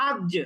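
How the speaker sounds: "আজ" with the jim struck hard and the sound cut dead; hard stopped jim. Shown as a demonstration. Teacher showing students a hard, stopped jim. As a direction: snap the jim in "আজ" shut with a bounce. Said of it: "জিম খুব কঠিন করে উচ্চারণ করি".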